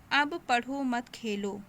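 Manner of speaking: slow, run together without a break after पढ़ो or मत; no pause. Shown as a demonstration. Teacher shows a sentence lacking punctuation, said without pauses. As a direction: read अब पढ़ो मत खेलो straight through. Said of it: "भाव स्पष्ट नहीं हो रहा है".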